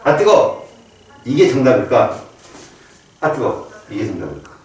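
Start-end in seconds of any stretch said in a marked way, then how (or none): 0.0-0.7 higher, abrupt cry at heat; startled yelp. Shown as a demonstration. Teacher demonstrating first quiz option, startled yelp. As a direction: yelp as if just burned. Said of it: "어떤 게 정답일까?".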